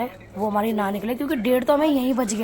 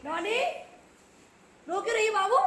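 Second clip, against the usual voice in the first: cooing concern; 11 semitones higher, 4 dB quieter than usual. Real, not acted. Aunt asks crying Noni what's wrong, cooing. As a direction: coo to a crying little one.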